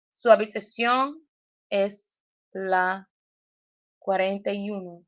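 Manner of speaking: Su habitación es la said word by word; each word of Su habitación separate; over enunciating. Shown as a demonstration. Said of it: "we're gonna enunciate each word separately".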